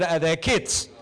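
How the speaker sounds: normal talking voice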